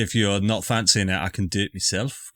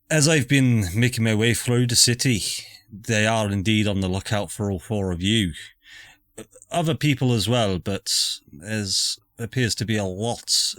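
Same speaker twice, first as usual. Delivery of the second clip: put-on Scottish accent. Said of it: "I picked up this accent".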